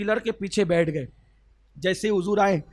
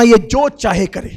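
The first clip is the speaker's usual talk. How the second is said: louder, level pitch; loud firm statement; 8 dB louder than usual. Acted. Prophet telling Umar, loud at level pitch. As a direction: state it firmly.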